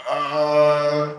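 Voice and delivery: put-on Swedish accent; lightly put-on Swedish accent. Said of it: "Why did you put on a Schuster voice".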